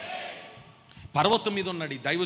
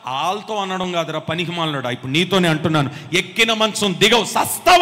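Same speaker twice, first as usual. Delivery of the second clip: fierce curse; 3 semitones lower, 5 dB louder than usual. Retold or imitated. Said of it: "అన్నాడు".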